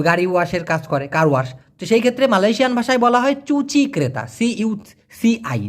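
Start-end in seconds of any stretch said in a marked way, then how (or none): 4.3-5.7 letters spelled out slowly; slow spelling out. Shown as a demonstration. Teacher spelling a Malay word for Bangladeshi learners, slowly. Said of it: "যেহেতু C উচ্চারণ হয় চয়ের মতো".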